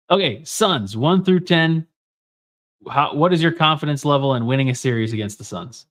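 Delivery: talking with a clothespin pinching the nose; nose clipped shut, clothespin voice. Real, not acted. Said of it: "The clothespin on your nose".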